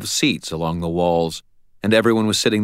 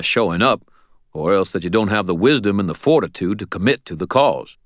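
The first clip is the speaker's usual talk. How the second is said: put-on stern old mentor; 3 semitones higher, 4 dB louder than usual. Ebenezer lecturing.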